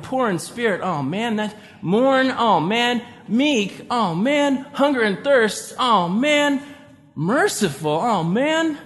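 each virtue read with a weary, deflated "oh man"; discouraged mock read of a hard list; defeated reading. Shown as a demonstration. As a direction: read the demands like they crush you, sighing oh man. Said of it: "where I put my emphasis".

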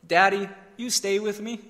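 lightly voiced small child, pleading gently; little boy. Son asks departing dad to stay, lightly imitated child's plea. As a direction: ask it like a young son, rising at the end. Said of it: "Declan says to me".

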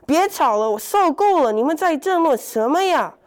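high, loud exasperated shout; breaking up a fight. Acted. Old horse shouts to stop the rabbit and turtle quarrelling, loud and exasperated. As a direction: stop the squabble, fed up.

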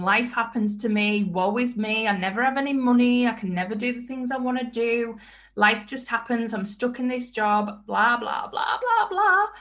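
whiny, mocking pity-party moan, high on the blahs; mock self-pity. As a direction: mimic someone wallowing, blah blah rising high. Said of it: "sat in your little pity party thinking".

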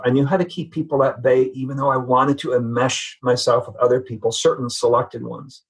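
ordinary talk, nothing marked

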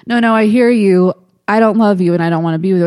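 mock exasperated refusal. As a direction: rattle off the no like she's fed up.

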